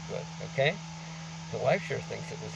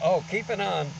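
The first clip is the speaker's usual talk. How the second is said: quoting a friend; 7 semitones higher, 5 dB louder than usual. Retold or imitated. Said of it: "They said".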